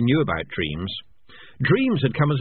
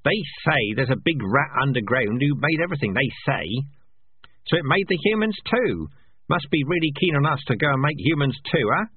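lightly voiced scoffing rat, a little higher; sceptical rat; 6 semitones higher than usual. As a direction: poke fun at the legend.

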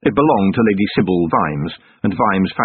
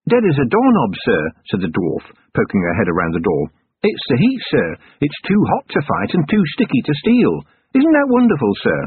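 put-on higher, eager young dwarf sergeant; dwarf sergeant's voice; 6 semitones higher than usual. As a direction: pitch it up as the keen dwarf reporting.

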